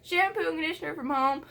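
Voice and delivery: hammed-up diva fury; mock outraged. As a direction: blow up in exaggerated indignation. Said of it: "And I was like".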